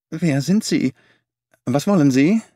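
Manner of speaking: startled, trembling question. Acted. Frightened little man to strangers, trembling. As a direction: voice shaking with sudden fright. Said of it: "fragte er mit bebender Stimme".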